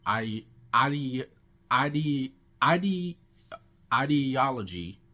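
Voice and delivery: stuck on the word, repeating it; stuttering. Real, not acted. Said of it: "I don't know why I'm stuttering".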